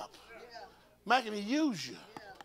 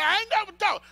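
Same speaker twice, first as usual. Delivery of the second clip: retold protest; 11 semitones higher, 10 dB louder than usual. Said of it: "she said".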